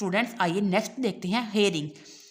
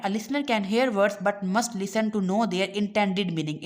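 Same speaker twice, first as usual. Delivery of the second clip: reading the English line slowly and deliberately; slow textbook reading; much slower than usual. Acted. Teacher reading the textbook aloud to students, slow and deliberate. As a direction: read it out word by word for the class.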